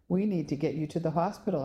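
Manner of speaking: quick, pressing urgency; urgent. Acted. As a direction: rush it out to get her moving. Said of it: "I said urgently".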